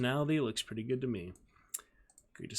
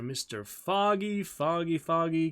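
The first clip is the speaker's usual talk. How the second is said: excited calling; 5 semitones higher, 5 dB louder, slower than usual. Real, not acted. Calling out a chatter's name.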